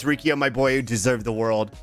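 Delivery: a lightly voiced lizard brain creature; reptilian lizard brain voice. Shown as a demonstration. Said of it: "here's reptilian lizard brain voice".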